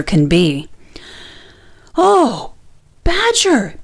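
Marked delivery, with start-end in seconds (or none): 2.0-3.8 high, breathless plea; panting. A narrator's reading. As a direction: gasp it out in a rush. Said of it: "panted Rabbit".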